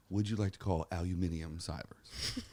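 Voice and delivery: put-on slow British accent car voice; imitating a British accent car assistant. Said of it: "why did you say it in a British accent".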